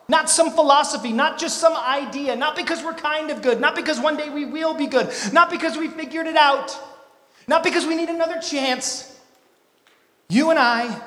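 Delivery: loud, driving list; building preaching. Real, not acted. Preacher to the crowd, loud and driving. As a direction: hammer each line harder.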